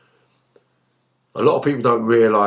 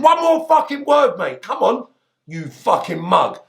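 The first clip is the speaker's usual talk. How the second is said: retold angry threat; 10 semitones higher than usual.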